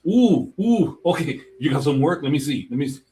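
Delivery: high, eager fan excitement; hyped. Acted. Artist asking to see someone's work, hyped. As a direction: pipe up high, keen to look. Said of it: "I get hyped".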